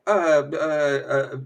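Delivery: slow, imitated flustered stammer; taken-aback stammer. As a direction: stumble as if caught off guard. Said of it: "literally taken aback".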